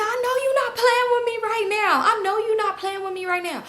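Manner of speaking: very high, drawn-together squeal of disbelief; imitated laughing disbelief. Friend reacting to her dad's absurd excuse, high mock-laughing disbelief. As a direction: imitate a friend too tickled to believe it. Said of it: "So Brittany started dying laughing".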